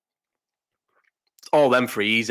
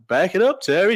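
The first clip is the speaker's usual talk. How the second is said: dead calm; 6 semitones higher, 4 dB louder than usual. Retold or imitated. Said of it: "Dead calm".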